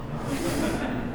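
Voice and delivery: soft, breathy mock gasp. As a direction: gasp softly in pretend shock. Mock shock at not knowing a famous band.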